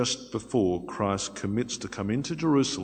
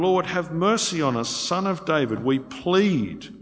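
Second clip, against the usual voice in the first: raised-pitch imitated appeal; retold pleading; 5 semitones higher, 4 dB louder than usual. Blind men crying out to Christ over the crowd, imitated pleading. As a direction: plead on their behalf, pitch lifted. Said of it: "They're pleading, they're yelling".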